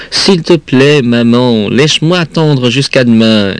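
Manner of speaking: put-on high-pitched begging child; pleading. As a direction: beg mother for a reprieve. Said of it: "d'un ton suppliant".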